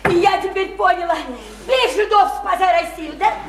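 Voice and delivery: high, boisterous heckle; excited outburst. Acted. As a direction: burst in with sudden understanding. Listener cuts in with mocking slogan.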